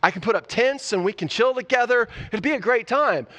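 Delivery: rising, eager and awkward; nervous invitation to hang out; a hint of a fumbling, overeager guy; awkward Peter. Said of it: "he's like".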